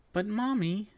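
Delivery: tearful sniffling plea. A narrator's reading. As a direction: sniffle through the words. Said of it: "I sniffled".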